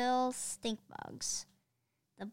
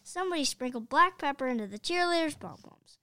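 fast, higher call from the stands; excited shout; 4 semitones higher, 4 dB louder, faster than usual. Acted. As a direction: blurt it out to the crowd. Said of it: "shouted a fan in the bleachers".

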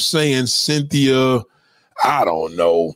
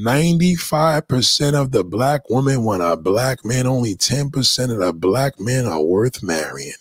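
deliberate restatement; 4 semitones lower than usual. Real, not acted. Deliberate restatement after "listen.

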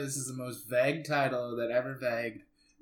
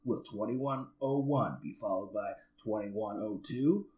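trailer guy voice. Pretend. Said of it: "uh, trailer guy voice".

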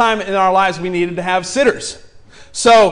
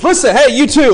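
loud call; 6 semitones higher, 6 dB louder than usual. Retold or imitated. Guard stops them again.

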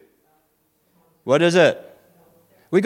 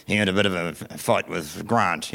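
put-on kids reporting; 6 semitones lower, 5 dB quieter, slower than usual. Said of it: "The kids go".

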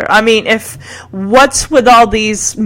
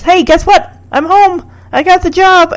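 higher, chirpy mock announcement; retold excitement; 9 semitones higher, 3 dB louder than usual. Host voices Rick coming home with job news, excited. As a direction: imitate a kid bursting in with news.

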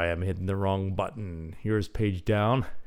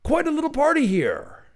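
high, hearty British remark, louder; hearty Englishman; 5 dB louder than usual. Acted. Englishman amused by the visitors, hearty British voice. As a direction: chuckle it out like a jolly English gent. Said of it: "the hearty Englishman".

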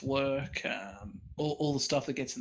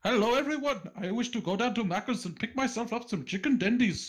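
high, mock formal Australian accent; hammed-up Australian ordering at Macca's; mock posh Australian; 6 semitones higher than usual. Guest hamming an Australian accent for the cast. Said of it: "racially insensitive cast".

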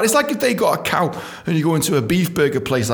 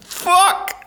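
shocked. Retold or imitated. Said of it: "I was like".

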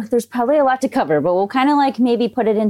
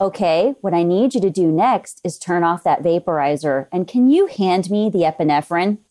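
calm monotone; 2 semitones lower than usual. Retold or imitated. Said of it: "very calm and monotone".

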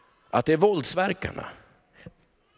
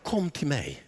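gentle invitation; 4 semitones lower, 7 dB quieter than usual. Acted. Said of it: "Vad säger han?".

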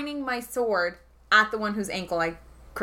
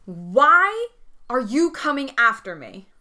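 half-raised demanding shout, easing off at the end; 3 semitones higher, slower than usual. Acted. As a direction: call out an indignant challenge to an attacker. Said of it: "I am shouting at the guy".

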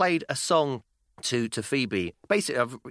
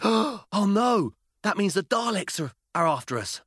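put-on higher, urgent little girl voice; mock scared child; 8 semitones higher, slower than usual. Girl warns dad about Daleks, mock alarm. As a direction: imitate a four-year-old fearing Daleks.

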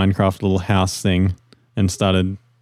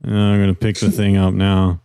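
sarcastic robot monotone. Pretend. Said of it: "the robot would probably be all like".

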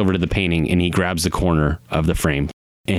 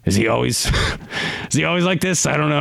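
flustered character; 8 semitones higher, faster than usual. Acted. Client asking companion about his friend, flustered. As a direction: voice rising high with a nervous laugh.

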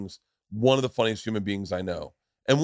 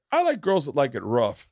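lightly acted, higher contestant voice; mock contestant; 4 semitones higher than usual. Bachelor answering on the dating show, mock contestant. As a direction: play the crude bachelor a little raised.

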